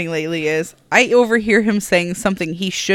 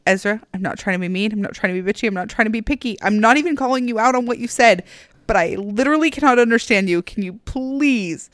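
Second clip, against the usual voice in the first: gentle request. Shown as a demonstration. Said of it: "that's what I've been saying, like, just like that".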